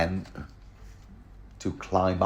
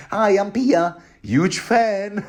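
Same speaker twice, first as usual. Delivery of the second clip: flirty Pia; 11 semitones higher, 4 dB louder, slower than usual.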